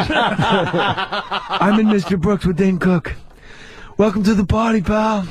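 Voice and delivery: slow, laughing Willis catchphrase; a hint of Willis, drawn out; lightly voiced Bruce Willis. Comic mocking Bruce Willis's career, a light impression. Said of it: "Bruce Willis".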